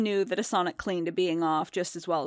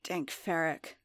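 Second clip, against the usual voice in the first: growled curse; 7 dB quieter, slower than usual. A narrator's reading. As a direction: growl it to yourself. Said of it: "Din growled".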